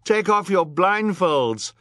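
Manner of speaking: high, loud, drawn-out plea; begging the crowd. A narrator's reading. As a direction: beg a whole crowd to act. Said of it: "Violet begged the crowd".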